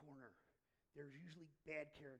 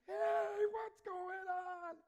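much higher, loud, slow cheerful shout to a sweeper; calling out; 17 dB louder, much slower than usual. Retold or imitated. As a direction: call out across the block like an excited kid.

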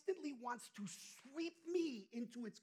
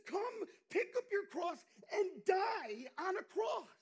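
much higher, loud fervent cry; proclaiming shout; 10 semitones higher, 8 dB louder, slower than usual. Acted. Preacher crying out Christ's command to the congregation, loud. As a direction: shout it out as a call.

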